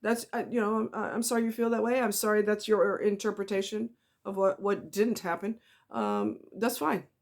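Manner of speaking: calm, soft, unbothered reply; quietly detached, feeding nothing. Shown as a demonstration. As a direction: stay even and let it slide. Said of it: "sit there calmly and say".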